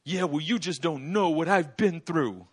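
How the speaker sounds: slow whiny retort; mock a self-pitying complainer; lightly voiced defensive congregant; a hint of sulky excuse. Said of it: "they go".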